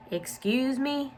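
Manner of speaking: high, drawn-out "Excuse me?"; challenging question. A narrator's reading. Warden challenges Stanley's excuse.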